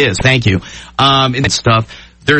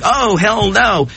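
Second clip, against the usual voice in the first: slow, drawn-out mock racer's dread; imitating Brad; 6 semitones higher, much slower than usual. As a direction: stretch it out slowly like a driver watching a shark fall. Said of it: "So Brad's like".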